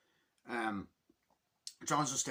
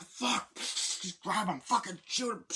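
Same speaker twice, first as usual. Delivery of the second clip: high, strained action-scene cries; frantic mock orders; 9 semitones higher, 3 dB louder, slower than usual. Bad guys chasing through traffic, frantic orders.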